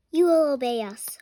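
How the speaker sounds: whispered hypnotic command; hypnotist command. Acted. Kid hypnotizing the principal in a whisper. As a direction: cast the spell in a hushed voice.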